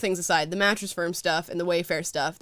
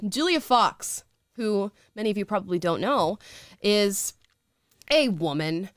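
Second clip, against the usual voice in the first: put-on Valley Girl voice; slower than usual. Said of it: "every time you do that voice".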